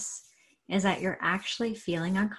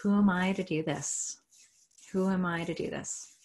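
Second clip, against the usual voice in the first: repeated mantra; 3 dB louder than usual. Shown as a demonstration. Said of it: "Now I want you to say".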